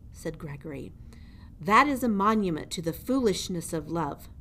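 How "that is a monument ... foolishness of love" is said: louder, looming jailer voice taunting a mouse; menacing old jailer. Acted. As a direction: lean over the prisoner and gloat. Gregory scorns love.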